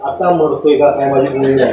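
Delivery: low, mock-panicked mutter; lightly hammed-up fear of death; panicky patient. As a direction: act out a man who thinks he is dying. Panicked pill-taker voiced.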